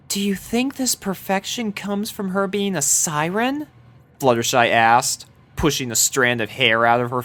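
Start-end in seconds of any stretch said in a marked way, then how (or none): 0.1-3.7 high, much softer shy voice; timid soft girl. A narrator's reading. Fluttershy shyly asks her friends about the siren, high and soft. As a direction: ask it meekly, barely there.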